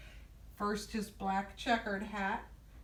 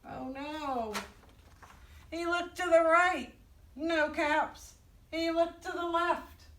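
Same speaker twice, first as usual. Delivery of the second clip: higher, lively picture-book telling; higher-pitched children's storyteller; storytime read-aloud; 6 semitones higher, 4 dB louder than usual. A narrator's reading. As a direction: read it out to little listeners with clear pauses.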